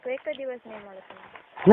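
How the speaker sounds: slow loud warning. Real, not acted. Phone quarrel with her partner.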